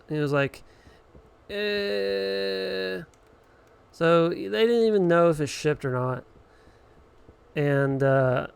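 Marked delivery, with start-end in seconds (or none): 1.5-3.0 clueless phone agent. Retold or imitated. Mocking agent's clueless hesitation.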